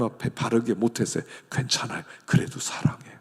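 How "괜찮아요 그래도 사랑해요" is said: whispered reassurance; tender whisper. Acted. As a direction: whisper it like comforting a child. (다정한 속삭임)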